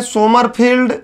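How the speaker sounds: "सोमरफील्ड" as so-mar-feeld, long ee; Sommerfeld as सोमरफील्ड. Shown as a demonstration. Teacher listing accepted variants, "सोमरफील्ड" said so-mar-feeld. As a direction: say "सोमरफील्ड" with so first, feeld last. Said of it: "अलग अलग मिल जाता है".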